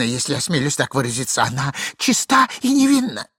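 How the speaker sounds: flustered, swooping self-justification; humble apology. Acted. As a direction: grovel and explain yourself anxiously. Униженно оправдывается перед генералом. (униженно оправдываясь)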